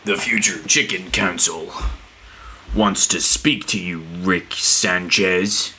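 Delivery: slow, drawn-out alien council herald; lightly voiced slow alien herald; robotic announcer quote. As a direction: announce it like a cartoon alien envoy. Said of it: "That's something from Rick and Morty".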